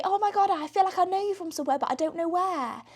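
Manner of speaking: a stranger squinting, trying to place the face; puzzled fan. Retold or imitated. Strangers half recognising the speaker.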